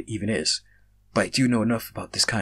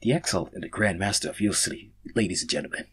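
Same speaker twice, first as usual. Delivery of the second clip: sarcastic. Acted. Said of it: "said sarcastically while laughing".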